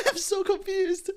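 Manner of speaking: high giggling confusion; real amused bewilderment; laughing confused. Real, not acted. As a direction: laugh it off, baffled. Surprise gift of crystals.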